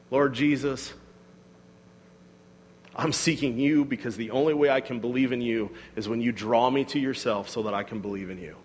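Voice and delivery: low, subdued prayer; quiet prayer. Acted. Believer seeking grace from Jesus, quietly prayerful.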